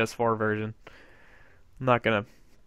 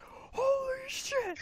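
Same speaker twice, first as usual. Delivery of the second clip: retold amazement; 7 dB quieter, much slower than usual. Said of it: "I'm like".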